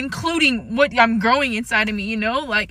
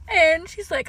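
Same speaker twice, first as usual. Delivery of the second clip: crying; 4 semitones higher than usual. Real, not acted. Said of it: "and I started, like, crying".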